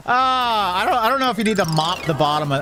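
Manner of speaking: laughing at the janitor mopping the pool bottom. Real, not acted. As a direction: stammer it out while laughing. Still laughing, then repeats composed.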